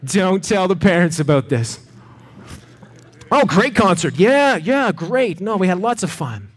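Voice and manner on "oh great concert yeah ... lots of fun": breezy cover story. Pretend. Pretend report to parents.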